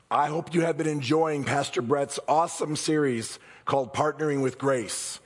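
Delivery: a bit hoarse; scratchy throat; raspy voice. Real, not acted. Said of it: "excuse my raspy voice".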